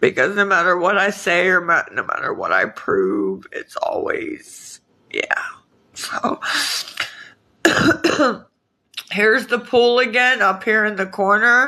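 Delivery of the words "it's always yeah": slow, whispered crying breaking into a sob. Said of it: "Why am I always crying on here?".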